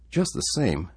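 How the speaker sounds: put-on young David, uncertain; boy's voice. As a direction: voice a small worried boy. David again.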